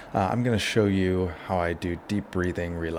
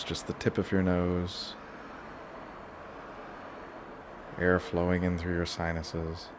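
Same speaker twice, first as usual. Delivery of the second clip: guided relaxation; 6 dB quieter than usual. Shown as a demonstration. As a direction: ease them through each breath, leaving long pauses. Leads a breathing relaxation.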